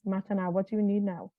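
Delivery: asking herself kindly what she needs; tender self-talk. Shown as a demonstration. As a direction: coax yourself gently like a friend. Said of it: "Give it a lot of space".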